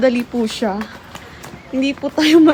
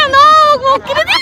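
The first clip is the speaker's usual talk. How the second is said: squealing high while being tickled; 14 semitones higher, 5 dB louder, faster than usual. Real, not acted. (nakikiliti, tumitili)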